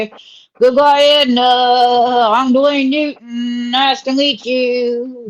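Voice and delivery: lightly put-on, drawn-out character voice; puppet character. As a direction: stretch the words out in a held, loud cartoon voice. Puppet figure greets and takes leave.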